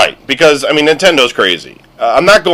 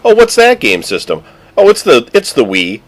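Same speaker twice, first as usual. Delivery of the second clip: mock visitor; 3 semitones higher than usual. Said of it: "people coming over going".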